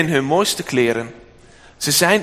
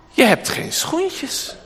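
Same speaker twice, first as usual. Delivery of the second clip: put-on high, slow cooing to a baby; old shoemaker cooing at a baby's cold feet, high and slow; high baby talk; 12 semitones higher, slower than usual. Shoemaker talks tenderly to baby.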